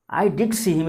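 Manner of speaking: did stressed, sure; emphatic did. Shown as a demonstration. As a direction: insist you really saw him. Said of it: "it means I am sure".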